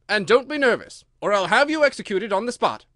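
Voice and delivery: loud, high royal threat; threatening king. A narrator's reading. King threatens the nervous Hatter with execution, loud and menacing. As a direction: threaten the witness at full voice.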